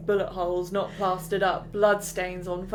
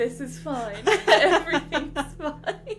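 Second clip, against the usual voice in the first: mock calm; 6 semitones higher, slower than usual. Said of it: "George just sat there like".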